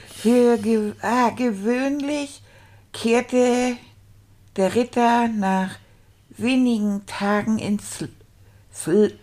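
slow, stuttered sounding-out of words; halting beginner reading. Acted. Beginner reading a dragon story aloud, halting and laboured. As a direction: read haltingly, stretching out difficult syllables.

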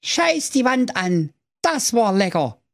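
slow, burped-out words; burping the words. Acted. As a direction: talk through a big burp. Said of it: "Er rülpste von Herzen und sprach".

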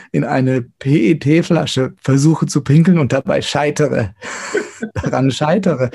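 half-laughing, amused at himself; chuckling through the embarrassing admission; laughing while telling. Real, not acted. Singer telling interviewers about his mishap, laughing.

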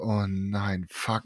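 low, hushed inner panic; muted oh-no thought, barely voiced; retold dread. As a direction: sink into a quiet, dismayed aside to yourself. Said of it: "so Pressure in mir gehabt".

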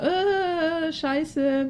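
long high "äh" of a complaining fan; nörgelnde Fans. Retold or imitated. Spielt vorab meckernde Fans nach. (genervt nachgeäfftes Meckern)

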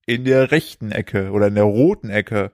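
lightly voiced ring announcer intro; boxing ring announcer. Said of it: "Warte, ich muss das sagen. Pass auf".

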